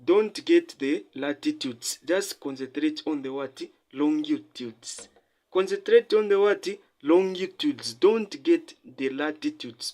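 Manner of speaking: teacher hammering "don't get the latitudes" and "concentrate"; emphatic repetition. Real, not acted. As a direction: drive home "latitudes" and "longitudes", each point restated firmly. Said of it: "So I'm emphasizing".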